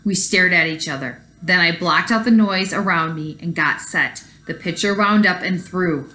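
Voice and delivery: put-on reading a story aloud to kids; story narration. A narrator's reading. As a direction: tell it like a read-aloud storybook. Teacher reads picture book aloud.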